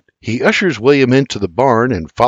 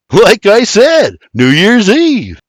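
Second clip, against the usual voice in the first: slow sarcastic repeat, higher; sarcastic retort; 9 semitones higher, 6 dB louder, slower than usual. Acted. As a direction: shrug and needle him. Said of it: "the Irishman retorts".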